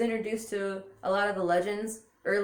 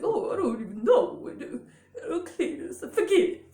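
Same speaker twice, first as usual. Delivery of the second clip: high, loud flustered mama; hammed-up high character voice, dismissing her man; Mama Klump; 10 semitones higher, 6 dB louder than usual. Mama telling her husband forget it, high loud voice. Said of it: "to get that sound to come out".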